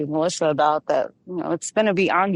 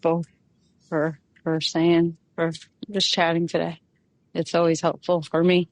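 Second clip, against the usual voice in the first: talking with a mouth stiff from cold; words stiff from a frozen mouth. Real, not acted. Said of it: "My mouth is frozen, so it's hard".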